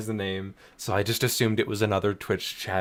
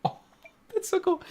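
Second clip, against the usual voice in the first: high, fast laughing delight; faster than usual. Real, not acted. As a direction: laugh through it, thrilled.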